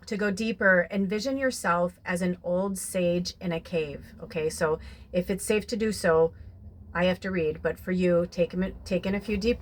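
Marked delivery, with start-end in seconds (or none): 0.1-4.1 reading card aloud. Shown as a demonstration. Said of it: "So this says".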